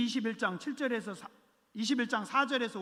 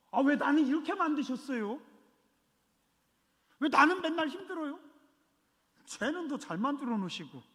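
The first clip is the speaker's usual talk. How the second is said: mock complaining believer; 5 semitones higher than usual.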